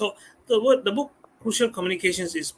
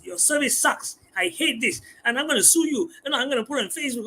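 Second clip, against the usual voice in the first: raised pitch, mock threatening rant; imitated angry customer; 5 semitones higher than usual. Customer threatening staff, in a mock angry rant. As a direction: voice an upset customer threatening to sue, hammed-up. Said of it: "they threaten you".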